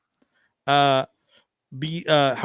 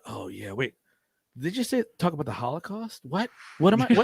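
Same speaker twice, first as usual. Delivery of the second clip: confused realization. Retold or imitated. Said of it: "you'd be like".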